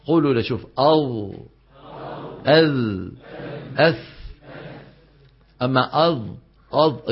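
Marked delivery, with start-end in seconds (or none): 0.8-4.1 "أذ، أث" held, tongue tip just at the teeth edge; interdental sounds. Shown as a demonstration. Teacher showing students tip on tip, "أذ، أث" held cleanly. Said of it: "بس الطرف على الطرف". 6.1-7.1 "أض" as th with tongue pushed far out; overprotruded tongue. Shown as a demonstration. Teacher showing the mistake, "أض" with protruding tongue. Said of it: "يطلع سنتيمتر من لسانه".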